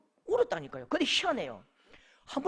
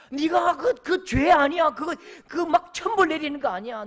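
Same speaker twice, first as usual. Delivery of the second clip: loud, raised, insistent comfort; emphatic reassurance; 5 semitones higher, 9 dB louder than usual. Acted. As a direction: insist they are not to blame. God insistently reassuring a believer. (크고 높게 힘주어 다독이는 말투)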